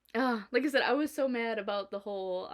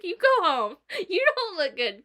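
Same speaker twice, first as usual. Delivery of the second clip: higher, louder firm mock boss; retold boss order; 9 semitones higher, 7 dB louder than usual. Boss ordering a sick employee home, higher and louder. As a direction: send her home like a worried boss. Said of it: "she was just like".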